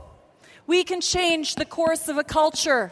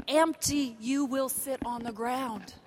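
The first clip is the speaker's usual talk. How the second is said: hushed; 4 semitones lower, 8 dB quieter than usual. Acted. Sermon voice drops to near hush.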